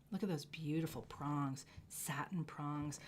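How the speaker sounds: hushed, breathy whisper of awe; awed whisper to the camera. Real, not acted. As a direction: whisper it like a secret treasure. Admiring ring prongs.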